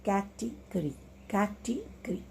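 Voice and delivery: "category" said softly, the final y barely touched; "category" in soft beats with a light -gry ending. Shown as a demonstration. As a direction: soften "category" and keep the last sound light. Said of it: "बहुत हल्का सा इसका उच्चारण किया जाता है".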